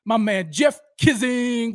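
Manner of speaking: slow, loud, drawn-out greeting; hyped shout-out. Real, not acted. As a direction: call the name out big to the crowd.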